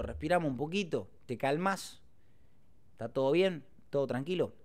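gentle, soothing check-in; reassure, easing down softly; retold calming son. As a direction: lightly act out calming an upset mother.

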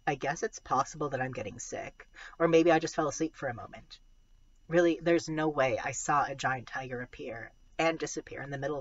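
storytelling read-aloud voice; story narration. A narrator's reading. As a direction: read it like a middle grade novel. Reads a novel aloud.

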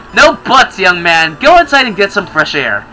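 lightly voiced stern mother; firm motherly order; scolding mom. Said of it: "I hate it when she calls me young man".

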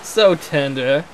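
mock tender. Mock emotion.

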